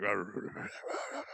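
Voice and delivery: quiet wordless smoker's rumble; heavy smoker's growl. Retold or imitated. Host mimicking the dub's stoic witch, wordless smoker's growl. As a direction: imitate a forty-a-day rasp without words. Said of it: "it's like smoking forty a day".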